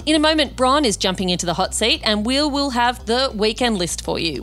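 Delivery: scripted host introduction, neatly phrased; podcast intro read. Real, not acted. Host introducing the weekend guest to listeners, scripted intro read. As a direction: read it as a polished show opener.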